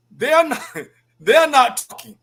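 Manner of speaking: says it through a laugh; amused laugh breaking into the words. Real, not acted. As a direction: laugh it out in disbelief. Laughing while describing Parliament.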